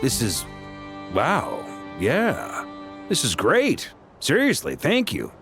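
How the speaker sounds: high, thrilled thanks; delighted gratitude. Acted. Knight thanks the mage for the gift, delighted. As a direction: pitch jumping up with grateful delight. Grateful reaction to promised help.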